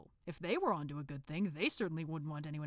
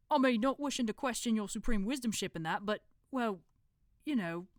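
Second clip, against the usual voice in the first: nervous, trailing off; 4 semitones higher, 3 dB louder than usual. Acted. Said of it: "his voice trailed off".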